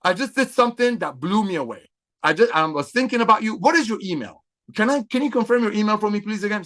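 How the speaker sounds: upbeat sample call. Pretend. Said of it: "You reach out to Sally".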